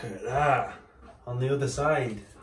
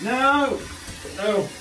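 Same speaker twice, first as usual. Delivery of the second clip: sharp no; 9 semitones higher, 5 dB louder than usual. Real, not acted. Dog moves too soon.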